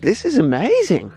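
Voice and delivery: high-pitched imitation Perth accent; mimicked Australian accent. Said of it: "I always tend to mimic your accent".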